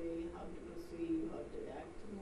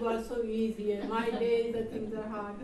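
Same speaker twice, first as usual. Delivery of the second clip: retold shouting; 3 semitones higher, 10 dB louder than usual. Youngsters complaining about their elders' easy days, mock shouting. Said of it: "They're shouting and screaming at you".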